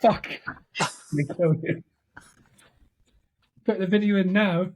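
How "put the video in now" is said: higher, with a falling punch on now; a put-on grand voice on now; mock grand announcement. Shown as a demonstration. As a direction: proclaim it like a wizard. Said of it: "That's me putting a video in".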